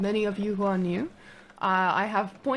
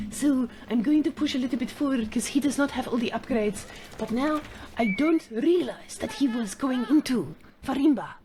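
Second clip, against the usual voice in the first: a light fake French accent, a bit higher; mock French accent; 3 semitones higher than usual. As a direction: narrate your moves as a cartoon Frenchman. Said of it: "the Marine Lord persona has been chosen".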